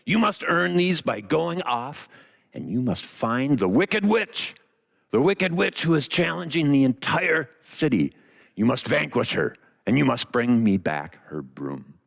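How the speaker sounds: a hint of an imperious wizard, deliberate pace; scary mean wizard. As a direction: hand down orders like a stern wizard. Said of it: "as a scary, horrible, and, uh, mean guy".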